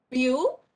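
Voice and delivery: "Beautiful" in three beats, Beau - ti - ful; long pauses between the syllables of "Beautiful"; broken into syllables. Shown as a demonstration. Teacher counting three syllables, split syllables. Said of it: "we give a break".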